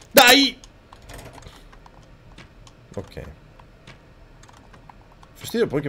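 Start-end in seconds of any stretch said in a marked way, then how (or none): 0.1-0.6 loud, high-pitched outburst; frustrated shout. Real, not acted. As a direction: yell it suddenly at the game. Player yells in frustration at game. (urlo di frustrazione)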